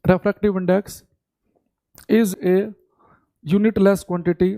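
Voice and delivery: phrase by phrase with long pauses; slow chunked classroom dictation; broken-up dictation. Shown as a demonstration. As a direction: dictate in chunks, waiting for them to write. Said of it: "तो लिखेंगे".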